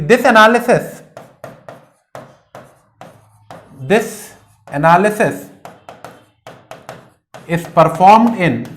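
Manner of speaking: word by word, with long pauses; slow dictation. Real, not acted. Teacher writing out the point for students, slow dictation. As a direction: dictate slowly while writing it out.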